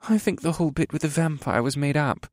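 put-on high-pitched scoffing young soldier; moody scoff. A narrator's reading. Young soldier doubting the vampire story, scoffing moodily. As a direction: dismiss the rumour with a sulky scoff. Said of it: "the youngest soldier scoffed as he stared moodily".

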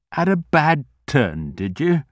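put-on old man voice. Old grocer asking kindly.

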